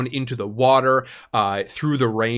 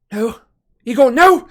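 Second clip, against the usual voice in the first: shrill high panicked shout, much louder; frantic cry; 12 semitones higher, 9 dB louder than usual. Acted. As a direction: scream it like she's watching him fall. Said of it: "Rose says".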